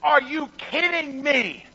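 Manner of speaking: amazed, stretched-out exclamation; awestruck. Retold or imitated. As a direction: marvel out loud in disbelief. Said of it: "We would say".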